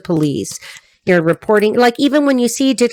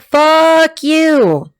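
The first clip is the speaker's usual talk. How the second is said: a snappy, defiant "Fuck you" in a higher voice; sassy comeback; 6 semitones higher, 4 dB louder than usual. Retold or imitated. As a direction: toss it back like the client would. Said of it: "She's like".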